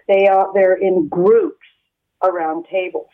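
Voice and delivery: phone line sound; over the phone. Real, not acted. Caller on the line.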